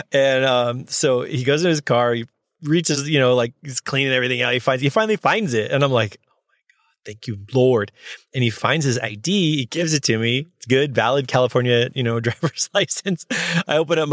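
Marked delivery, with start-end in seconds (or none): 6.3-7.9 hushed private prayer of thanks; breath-only thanks, retold; relieved whisper.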